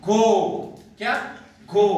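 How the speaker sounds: "go" with a long open O; long vowel. Shown as a demonstration. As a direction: hold the vowel at the end of "go". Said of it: "लेकिन long sound देगा हमें".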